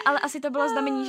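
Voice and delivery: ordinary talk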